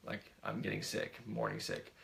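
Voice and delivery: hushed retelling of a queasy confession; retold whisper. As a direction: softly imitate a private whisper. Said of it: "and she whispered".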